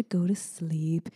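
slow, whispered lullaby tone; slow calm whisper. Shown as a demonstration. Mom showing her bedtime singing voice. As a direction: hush it to lull a child. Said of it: "slow and calm".

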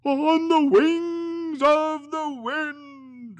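high, very slow ghostly wail; unearthly voice. Acted. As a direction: let it drift like wind. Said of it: "replied the ghost".

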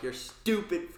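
high, loud and laughing; mock insult, laughing.

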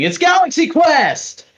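sudden high shout of the real title; excited reveal. Real, not acted. Host springing the real movie on co-hosts, excited shout. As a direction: blurt it out, thrilled. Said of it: "I'm just kidding".

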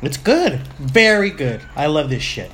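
talking with a mouth full of chips; words round a mouthful of food. Real, not acted. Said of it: "sorry for talking, uh, with my mouth full".

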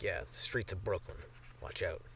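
a spooky warning about the streets; mock ominous hush.

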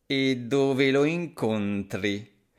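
slow, sly snake voice. Acted. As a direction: ask it like a suspicious snake. Snake questions mouse.

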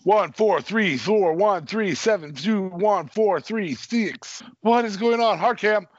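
high, loud, rapid-fire switching orders; mock director's frantic countdown; frantic camera calls. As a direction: bark camera numbers like a director losing control.

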